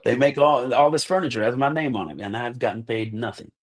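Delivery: teasing friend about his name on doors, mock proud. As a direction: tease the friend with a grand claim. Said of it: "you're gonna be like".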